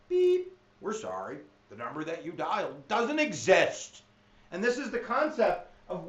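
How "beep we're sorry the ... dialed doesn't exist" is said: lightly voiced automated operator message; a hint of a robotic recorded voice; mock phone recording. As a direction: play the phone company's recording. Imitating phone disconnect recording.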